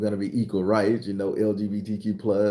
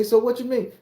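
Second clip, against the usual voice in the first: high questioning voice; 13 semitones higher, 4 dB louder than usual. Acted. Voicing questioners in comedic tale.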